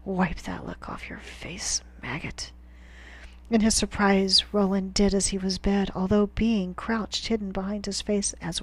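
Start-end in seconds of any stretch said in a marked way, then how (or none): 0.1-2.5 gruff whispered scolding. A narrator's reading. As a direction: growl it with the last of his breath.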